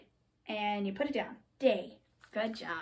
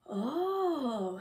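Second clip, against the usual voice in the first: long, swooping sigh; 4 dB quieter than usual. A narrator's reading. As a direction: let a soft oh rise and fall. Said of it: "sighed Mole".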